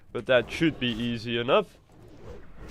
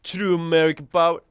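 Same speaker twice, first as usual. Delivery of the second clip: bad American accent; 4 semitones higher, 6 dB louder than usual. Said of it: "worst American accent I've ever done".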